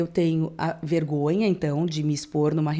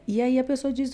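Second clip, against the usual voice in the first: normal talking voice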